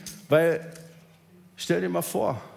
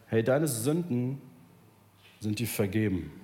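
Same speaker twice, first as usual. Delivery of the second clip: Jesus forgiving sins; 5 semitones lower than usual. Retold or imitated. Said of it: "Er sagt".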